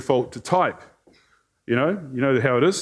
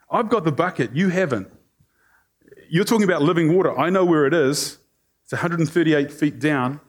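a touch of lippy one-upmanship; mildly smug, showing off the bucket; sassy. Retold or imitated. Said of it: "a little bit lippy".

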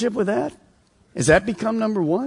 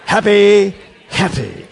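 southern accent; 3 semitones higher, 7 dB louder, slower than usual. Shown as a demonstration. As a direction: lead the crowd in a southern accent. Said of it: "get your southern accent in".

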